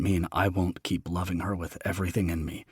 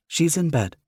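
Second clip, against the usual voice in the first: mother voice; 9 semitones higher than usual. Acted.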